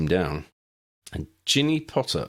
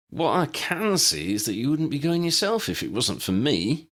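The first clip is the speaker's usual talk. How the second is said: warning; 9 semitones higher than usual. A narrator's reading. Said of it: "Dennis warned".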